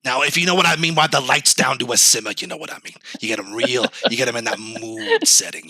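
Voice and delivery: a hint of a seductive sports pundit; Stephen A. Smith impression. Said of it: "Stephen A. Smith, what do you think".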